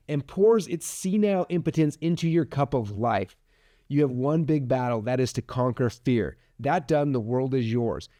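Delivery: measured recitation, slowing at phrase ends; quote reading. Acted. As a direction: read a quoted passage aloud, deliberately. Reads a literary quote aloud.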